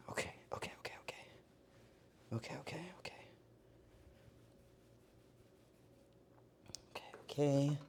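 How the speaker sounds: whispered, repeated self-reassurance; muttering to self. Real, not acted. Baker talking self through the next step, whispered muttering. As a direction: whisper it under the breath.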